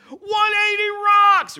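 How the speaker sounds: huge slow shout right in her ear; scream. Retold or imitated. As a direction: bellow it out like a fan. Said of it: "and I scream".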